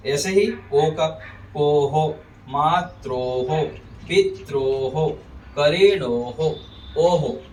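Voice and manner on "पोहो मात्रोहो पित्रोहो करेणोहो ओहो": पोहो, मात्रोहो, पित्रोहो, करेणोहो, ओहो with held "oh" then "ho"; o visarga. Shown as a demonstration. Teacher models the rule, पोहो, मात्रोहो, पित्रोहो, करेणोहो, ओहो ending "oh-ho". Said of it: "ऐसे करेंगे".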